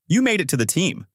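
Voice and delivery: mother's pleased astonishment; delighted surprise. A narrator's reading. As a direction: react to great news, pitch lifted. Mother surprised by good news.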